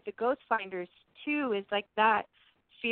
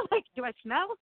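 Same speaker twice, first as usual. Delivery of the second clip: higher, fretful voice with laughs; flustered and hurt; 3 semitones higher than usual. Retold or imitated. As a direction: play it as an anxious, baffled spirit. Acting out a spirit's hurt reaction.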